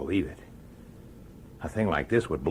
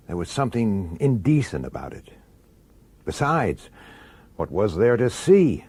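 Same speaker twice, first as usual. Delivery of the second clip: story narration. A narrator's reading. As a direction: narrate it inward, like a private diary. First-person narration between scenes.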